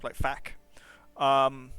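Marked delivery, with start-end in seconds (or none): 0.1-0.5 fac with a short flat a as in cat; sounded-out variant. Shown as a demonstration. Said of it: "like an ah sound".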